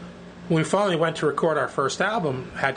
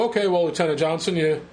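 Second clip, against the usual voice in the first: condescending. Retold or imitated. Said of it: "talked down to him like I outranked him".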